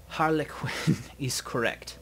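put-on slow German-accented envoy. Dragon's envoy confirming Harlequin's account, slow German accent. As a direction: savour the words in a German accent. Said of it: "melodious German accent".

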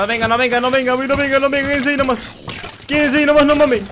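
high, loud frantic begging; urgent pleading shout. Real, not acted. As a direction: plead with them to stay put. Enemigos reaparecen, pide que esperen. (súplica gritada)

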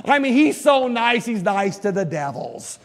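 mock-pious objection, drawn out; put-on indignant believer; mock protest. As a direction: imitate scandalized churchgoers, stretching the key words. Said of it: "now a lot of people".

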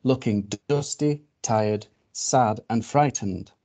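slow, measured picture-book reading; story narration. A narrator's reading. Reader telling children of a strange animal arriving, storytelling. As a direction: read it slowly to small children, pausing on each detail.

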